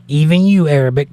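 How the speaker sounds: single out the viewer, punch it loud; calling someone out. Real, not acted. Calling out a chat user.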